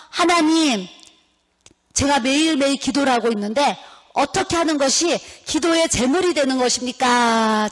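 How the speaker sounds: re-enacted earnest question to God; retold prayerful question. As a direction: call on God, then ask, slowing at the end. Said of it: "하나님 앞에 물었어요".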